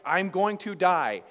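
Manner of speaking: loud, slow cry of panic; mock panic. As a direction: voice David sure he will die. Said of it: "David's like".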